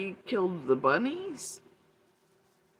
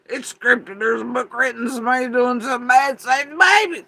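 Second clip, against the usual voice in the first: mocking quote; 7 semitones higher, 11 dB louder than usual. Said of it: "y'all are immediately like".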